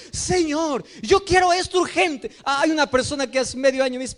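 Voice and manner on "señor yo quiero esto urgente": a believer crying out to God, demanding it right now. Retold or imitated. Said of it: "vamos a Dios y decimos".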